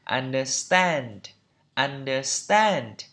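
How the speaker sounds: slow understand with an American "a"; American pronunciation. Shown as a demonstration. Teacher repeating for learners, slow American accent on understand. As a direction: draw out understand the American way, vowel toward "e". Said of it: "Còn trong anh Mỹ là".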